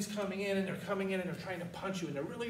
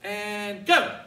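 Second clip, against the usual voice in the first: shouted command; 3 semitones higher, 12 dB louder than usual. Real, not acted. Instructor calls the strike.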